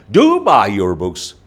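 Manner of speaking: "Do" stressed at the start, slow. Shown as a demonstration. Teacher stressing do for the class. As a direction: hit Do, then ease off. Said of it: "Now here emphasis is added".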